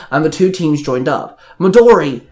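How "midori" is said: loud, higher-pitched call of a name. A narrator's reading. Ace spotting a lost teammate, calling out. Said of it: "Ace called out".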